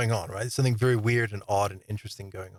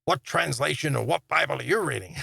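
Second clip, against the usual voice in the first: higher-pitched, teasing question; mock-nosy questioner, pitched up; cheeky; 4 semitones higher than usual. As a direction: imitate someone cheekily quizzing you. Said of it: "kinda cheekily".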